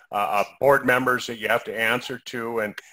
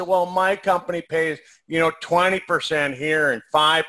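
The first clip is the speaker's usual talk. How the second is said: whiny voice. Retold or imitated. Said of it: "I'm using my whiny voice".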